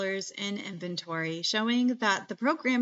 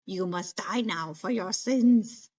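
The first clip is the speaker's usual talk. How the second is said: robot voice; 3 dB louder than usual. Pretend. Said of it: "That's my robot voice".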